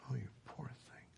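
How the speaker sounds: soft breathy whisper of pity. Acted. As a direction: whisper it gently to the sick dog. Pity for the sick dog.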